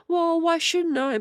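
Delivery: high mocking parrot voice quoting him; mock parrot quote. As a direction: parrot his line back high and slightly slow. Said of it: "and he was like".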